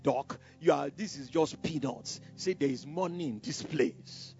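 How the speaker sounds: lightly voiced tempter; workmate tempting.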